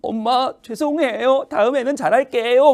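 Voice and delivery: high, slow mock whimper; drawn-out, put-on weepy pleading; tearful apology. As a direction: play a crying child begging mom's forgiveness. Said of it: "눈물부터 이제 충혈을 합니다".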